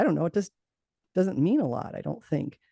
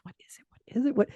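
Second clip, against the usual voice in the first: panicked grasping; 8 semitones higher, faster than usual. Retold or imitated. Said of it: "like, grasping".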